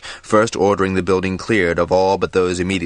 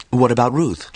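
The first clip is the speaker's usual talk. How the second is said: sharp, louder, higher demand; 7 semitones higher, 4 dB louder than usual. A narrator's reading. Lessa presses the council about the dragon Ruth, demanding. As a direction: press hard for an answer. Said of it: "Lessa demanded".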